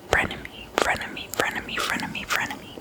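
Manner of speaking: very faint whispered repetition of a word; repeated trigger word. Pretend. Repeating a word for ASMR listeners, very soft whisper. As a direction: let the whispered word echo away softly.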